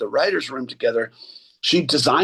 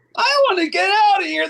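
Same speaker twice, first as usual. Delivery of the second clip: put-on very high seven-year-old boy voice. Showing how a fellow performer can sound like a seven-year-old boy. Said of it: "he can just sound like a like a seven year old boy".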